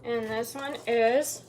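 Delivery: slow, patient quizzing question; kindergarten teacher voice. Real, not acted. Mother quizzing toddler on colors.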